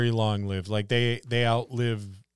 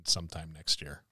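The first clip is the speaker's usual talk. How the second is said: voiced sleepy snake; 5 semitones lower, 8 dB quieter than usual. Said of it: "a snake or something. It's like".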